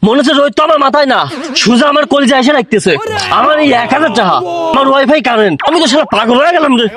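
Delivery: comic distress at being swindled; upset lament. Acted. Cheated man laments his lost money.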